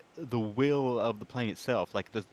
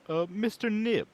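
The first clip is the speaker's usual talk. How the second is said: slow, formal in-character greeting; 2 semitones higher, slower than usual. Acted. The speaker greets Mister Nib formally in character, slow. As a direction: address the host politely, in character, slowly. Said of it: "instead, I'll say".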